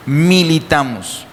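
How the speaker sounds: "militamos" said slowly and leaned on; emphatic slow "militamos"; stress on militamos. Shown as a demonstration. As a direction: stretch out "militamos" with weight. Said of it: "enfatizar esa palabra".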